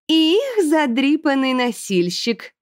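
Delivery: high, very slow sneering aristocrat; angry hiss. A narrator's reading. Aristocrat sneering at two ragged girls, slow hiss. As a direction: spit the insult with contempt. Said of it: "добавила она".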